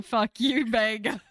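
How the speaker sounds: shouted curse at the door; a player yelling in character at the locked door. Pretend. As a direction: yell it at the door in a rage.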